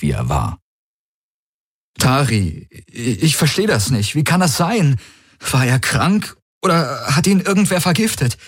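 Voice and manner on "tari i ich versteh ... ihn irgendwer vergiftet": higher, hurried, feigned panic, slowing on the last words; a man faking shock at a friend's collapse; panicked young man. Acted. Valyr feigns bewilderment. (gespielte Panik, höher und hastig)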